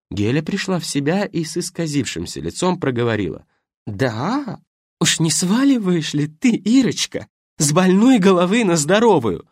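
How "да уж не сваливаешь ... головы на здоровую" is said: higher, louder mocking question; sneering counterattack. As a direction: turn it back on her with venom. Widow counterattacks.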